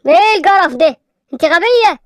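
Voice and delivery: put-on angry man snapping at a little girl. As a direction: scold her for dropping the bottle. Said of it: "عاصم غضب".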